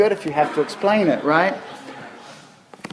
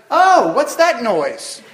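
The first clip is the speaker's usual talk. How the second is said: startled lumberjack; 6 semitones higher, much slower than usual. Retold or imitated. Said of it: "the other guy goes".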